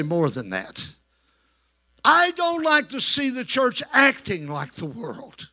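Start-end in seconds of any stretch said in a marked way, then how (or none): 0.0-0.8 "More" said much lower and softer, a call to echo; lower repeat line. Shown as a demonstration. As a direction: drop low and hand the line to the congregation. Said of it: "touch your neighbor and say".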